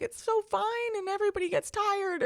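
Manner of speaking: high-pitched imitation of soothing excuses; retold reassurance. Friend's mother keeps reassuring child.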